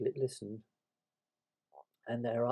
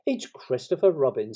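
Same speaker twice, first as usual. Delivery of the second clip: louder, eager announcement; 3 semitones higher, 7 dB louder than usual. A narrator's reading. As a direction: announce it with keen pleasure. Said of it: "said Pooh eagerly".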